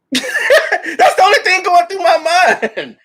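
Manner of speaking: real laughter, slow; laughing. Real, not acted. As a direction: laugh through the words.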